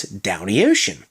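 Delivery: "down the ocean" as a slow "downy ocean"; Baltimore slur. Shown as a demonstration. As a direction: blend "down the" into "downy". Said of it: "the originator of the phrase".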